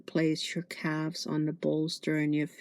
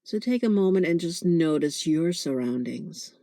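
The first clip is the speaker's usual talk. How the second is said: guided meditation. Acted. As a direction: gently guide them into noticing the breath.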